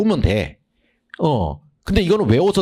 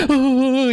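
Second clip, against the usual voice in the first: high, scared little whimper; panicked whimper; 13 semitones higher, slower than usual. Retold or imitated. Flustered student at a hard question, high whimper. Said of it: "이럴 거라고".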